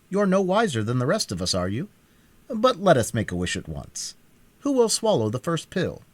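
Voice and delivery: a brisk Scarecrow urging them on. A narrator's reading. Scarecrow speaks to the group.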